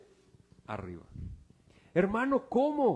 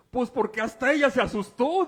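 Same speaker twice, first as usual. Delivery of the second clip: laughing, louder and higher; excited laughing; 8 semitones higher, 10 dB louder than usual. Acted. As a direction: tell it laughing at the startled medium. Preacher retells scared medium. (contando entre risas, más fuerte y agudo)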